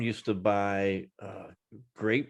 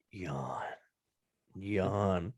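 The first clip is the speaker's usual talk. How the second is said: drawn-out yawn word; 4 semitones lower, 10 dB quieter than usual. Shown as a demonstration. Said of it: "get him to do it".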